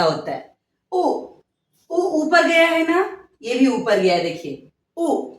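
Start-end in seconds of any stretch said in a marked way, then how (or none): 5.0-5.3 गु then गुलाब said slowly for the class; slow classroom enunciation; slow teaching demo. Shown as a demonstration. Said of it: "उच्चारण सही कीजिएगा".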